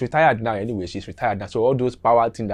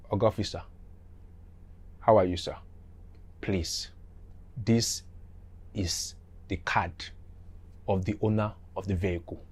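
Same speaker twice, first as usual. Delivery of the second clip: soft, humble pleading to an officer; small respectful voice asking a favour; meek polite plea; 2 semitones lower, 9 dB quieter than usual. Retold or imitated. A driver humbly begs the police officer, softly.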